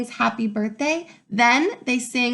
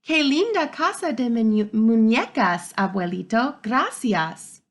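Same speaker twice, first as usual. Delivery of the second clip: delighted thanks; 4 dB louder than usual. Acted. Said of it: "I say and give Abuelito a big hug".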